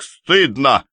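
the peacemaker still shouting; pleading shout. Acted. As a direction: shame them loudly. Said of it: "кричал Ряжский".

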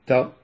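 تا with a clean, crisp Arabic ta; sound demo. Shown as a demonstration. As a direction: isolate تا as the people of Marrakech say it. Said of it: "بهذه الطريقة".

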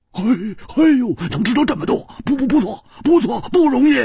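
high, chuckling stammer of mock praise; laughing. A narrator's reading. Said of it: "胡铁花笑着说". (笑着，高声结巴地夸)

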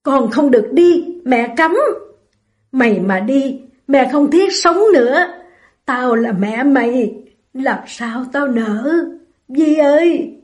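sharp, forbidding mother's voice; mother harshly forbidding her daughter to go. Acted. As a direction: clamp down on her leaving. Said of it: "Mẹ đổi giọng gay gắt".

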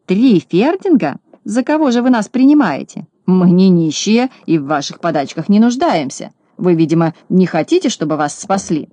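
outraged cry. Acted. Julio, offended by the tiny offer, howls in outrage. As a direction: howl in offended disbelief. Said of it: "возопил Жулио".

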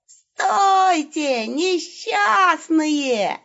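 high, slow, grating bandit screech; the wolf fakes a robbery, screeching at victims; screechy robber yell. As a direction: shriek like a vile stage robber. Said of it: "Отвратительно скрипуче-визгливым голосом заорал волк".

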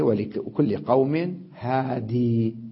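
هادي said slowly, ending on a long ya; slow recitation of هادي with the ya; ya kept. Shown as a demonstration. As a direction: keep the final ya in هادي. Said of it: "ويجوز إثباتها".

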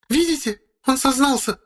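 very high woman's voice, gotcha; triumphant accusation. A narrator's reading. Wife insisting to the captain the narrator confessed, high triumphant voice. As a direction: pounce on his words.

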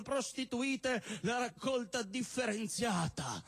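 a stand-up poet reciting with mock gravity; comic poem recitation. Poet reciting a love poem to the crowd, mock solemn. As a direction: declaim the absurd verses like a serious love poem.

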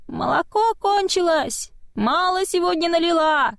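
put-on a thin little spirit-child calling from the dark; creepy tiny child voice; small child voice. A narrator's reading. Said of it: "тихий детский голосок".

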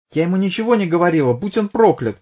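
high, fast angry outburst; woman flaring up under police questioning. A narrator's reading. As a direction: blurt it out hot and quick. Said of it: "вспыхнула Сильвия".

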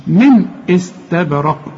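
slow "من استبرق" with a clear unhummed n; no nasal hold. Shown as a demonstration. Teacher shows clear noon before hamza, "من استبرق" without humming. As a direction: say "من" cleanly, no ghunna, then "استبرق" carefully. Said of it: "ما تغنش".

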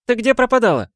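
put-on high, delighted girl's cry; Tayka voice. A narrator's reading. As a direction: clap hands and exclaim.

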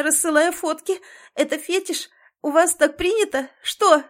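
high, loud, crying accusation; crying furious shout; shouting through tears. A narrator's reading. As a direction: sob and stammer out the accusations. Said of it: "по щекам вновь потоком струятся слёзы".

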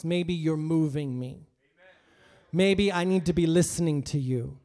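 loud, pleading prayer to God; impassioned prayer. Acted. Preacher pleading loudly with God about a job. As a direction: cry out to God with full force. Preacher praying aloud at full force.

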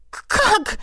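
a startled little squeak. A narrator's reading. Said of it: "пискнула я".

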